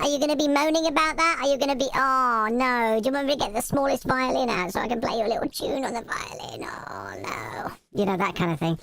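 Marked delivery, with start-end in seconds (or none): 0.1-6.0 higher, quick sarcastic teasing; mock someone for moaning; mocking tease. Teasing a moaner with the tiny violin. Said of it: "taking the mickey out of somebody". 6.0-7.7 whispered sarcastic oh no; mock whisper. Finishing the tiny violin joke with a whisper. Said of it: "taking the mickey".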